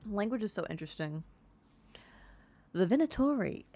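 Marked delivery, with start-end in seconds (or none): 2.7-3.6 high, loud announcement; grand heading; 1 dramatic title. Real, not acted. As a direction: call out the title like a trailer. Announcing codex entry name.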